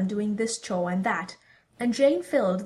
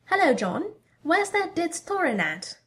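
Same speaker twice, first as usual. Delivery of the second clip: bright mocking villainess; 8 semitones higher than usual. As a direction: sneer it out brightly.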